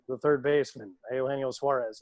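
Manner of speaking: understated deadpan stadium announcement. Shown as a demonstration. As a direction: announce the batter matter-of-factly, no excitement. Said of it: "just kinda deadpan and be like".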